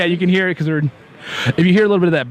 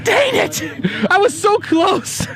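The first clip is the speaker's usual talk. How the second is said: mock despair; 13 semitones higher, much slower than usual. Real, not acted. Wife's text denies his wish.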